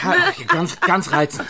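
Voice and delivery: very high, mocking; sarcastic laughing. Sarcastic remark on the brawl, high and laughing. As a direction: sneer through a laugh.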